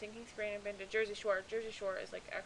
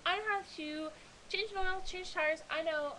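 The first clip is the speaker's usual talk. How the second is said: higher, proud and eager; pitched-up, proud claim; proud boast; 8 semitones higher than usual. Real, not acted. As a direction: brag about knowing cars. Proud boast about cars.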